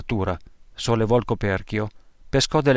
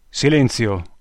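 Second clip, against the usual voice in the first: mild shouted order; slower than usual. Acted. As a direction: cut them off with one sharp word. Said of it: "urlò il poliziotto fascista".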